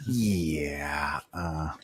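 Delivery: office boss. Acted. Still playing the office boss.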